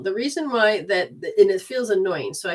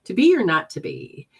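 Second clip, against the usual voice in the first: mock dramatic recital; 4 dB louder than usual. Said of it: "made me say it".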